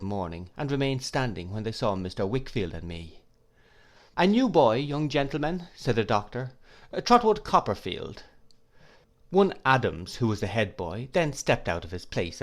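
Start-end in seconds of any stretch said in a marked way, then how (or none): 4.2-8.2 put-on a lightly higher old scholar's voice, kindly and absent-minded; Doctor Strong voice. A narrator's reading. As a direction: voice the doctor gently, a bit raised. Doctor introduces new boy to class.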